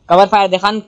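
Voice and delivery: urgent shout for cover fire. Real, not acted. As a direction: yell it at your teammate. Under fire, asking for cover.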